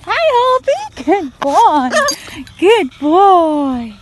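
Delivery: loud, happy praise; delighted loud praise; excited cheer. Real, not acted. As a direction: cheer the bird as he lands. Cheering parrot landing.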